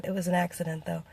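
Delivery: normal talking voice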